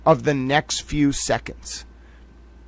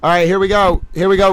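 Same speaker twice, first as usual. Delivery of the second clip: excited; 3 semitones higher, 6 dB louder than usual. Real, not acted. Excited live reveal.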